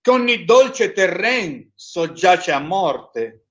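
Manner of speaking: trained declamatory voice. Acted. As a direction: recite it like a stage actor. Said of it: "Cercherò di avere una voce un pochettino più impostata".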